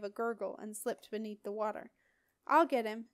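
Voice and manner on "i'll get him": a loud gasping cry into the cold; gasped. Acted. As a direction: gasp it out, teeth chattering. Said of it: "gasped Simon".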